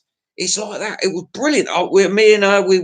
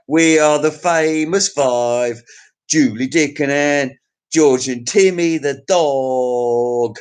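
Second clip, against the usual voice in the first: mock storybook announcer; 2 semitones lower, slower than usual. Reciting Famous Five.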